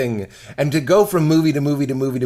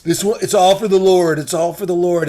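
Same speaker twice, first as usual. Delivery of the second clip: mock pious pastor; 3 semitones higher, 4 dB louder than usual. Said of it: "the ones that are like".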